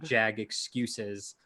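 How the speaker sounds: slow, lightly put-on British accent. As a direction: drawl it in a mock British accent. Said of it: "say in a British accent".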